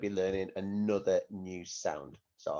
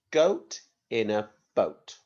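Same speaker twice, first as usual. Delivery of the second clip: slow rhyme; 4 dB louder, slower than usual. Shown as a demonstration. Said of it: "Can you say that?".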